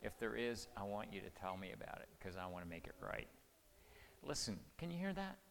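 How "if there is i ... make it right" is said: soft, low, sincere; tender, lowered fatherly voice; gentle father asking. Retold or imitated. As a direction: gently invite your child to open up. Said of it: "and I asked her".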